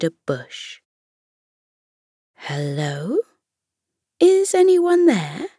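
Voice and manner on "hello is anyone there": calling out. Acted. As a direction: call out to someone hidden. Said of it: "Fenella called out into the thick bush".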